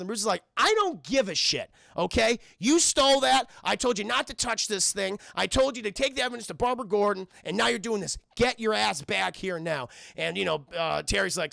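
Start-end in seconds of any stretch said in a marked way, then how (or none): 0.6-9.9 mildly raised, irritated telling-off; mock scolding. Streamer voicing Bruce scolding Terry over the suit, mildly angry. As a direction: lay down the law, half in earnest.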